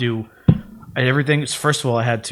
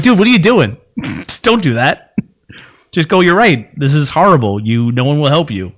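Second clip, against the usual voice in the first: exasperated advice; 3 semitones higher, 4 dB louder than usual. Retold or imitated. Advising uncle, exasperated.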